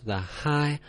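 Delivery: "the high" held level on a high note. Shown as a demonstration. Teacher reminding learners to hold the high tone steady. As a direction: keep "high" flat and high. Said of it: "remember to hold your tones".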